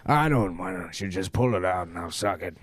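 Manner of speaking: gruff Nick Nolte voice; Nick Nolte impression. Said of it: "Nick Nolte being like".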